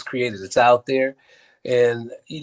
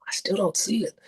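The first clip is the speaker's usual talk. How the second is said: high, softer imitated complaint; unconvinced director; 8 semitones higher, 5 dB quieter than usual. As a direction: act out a doubtful director, pitched up.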